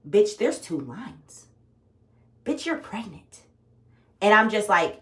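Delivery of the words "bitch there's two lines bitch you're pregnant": shocked. Retold or imitated. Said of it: "I'm in immediate shock".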